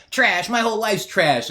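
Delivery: sitcom dad. Retold or imitated. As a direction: ham up the sad-sack father. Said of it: "And he says".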